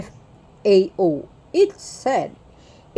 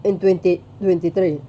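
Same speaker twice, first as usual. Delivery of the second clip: talking while burping. Real, not acted. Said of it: "dumidighaya ko".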